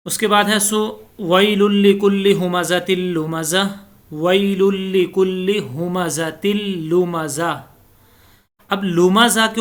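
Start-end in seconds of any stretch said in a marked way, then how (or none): 1.2-3.6 measured tajweed recitation; chanted Quranic reading. Shown as a demonstration. Teacher recites verse in recitation style. 4.1-7.7 slow, drawn-out tajweed reading; slow Quranic recitation. Shown as a demonstration. Repeats the verse slowly.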